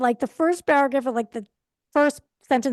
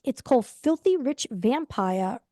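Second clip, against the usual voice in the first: New York accent. Shown as a demonstration. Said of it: "That's my New York accent".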